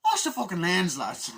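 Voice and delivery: high, loud mock yell at the crew; mock shout. Reviewer joking at the film crew, loud mock shout. Joke about blood on camera.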